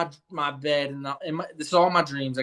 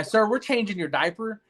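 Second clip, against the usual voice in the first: laughing nurse quote; 6 semitones higher than usual. Retold or imitated. Quoting nurse while laughing.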